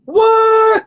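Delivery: choppy robot voice from bad connection; glitchy robotic call audio. Real, not acted. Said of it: "You sound like a robot".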